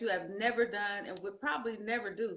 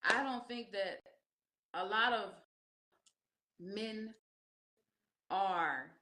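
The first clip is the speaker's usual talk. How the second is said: soft; 9 dB quieter than usual. Real, not acted. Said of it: "sudden soft earnest answer".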